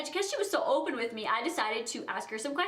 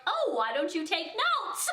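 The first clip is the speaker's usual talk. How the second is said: laughing; 6 semitones higher than usual. Retold or imitated. Finally asks the nosy question.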